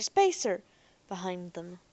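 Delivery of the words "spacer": distant crowd cry, lower. Acted. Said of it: "hearing voices crying".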